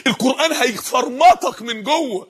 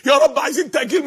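slightly raised acted begging; pleading; 3 semitones higher than usual. Sinners begging God to postpone punishment, pleading. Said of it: "شايفين الاستغاثة؟".

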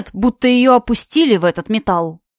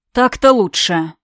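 slow, satisfied remark. Acted. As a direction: savour the win. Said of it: "удовлетворённый ответ".

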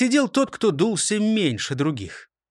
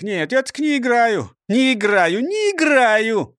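sulky protest; 7 semitones higher, 5 dB louder than usual. Acted. Sulky refusal, building.

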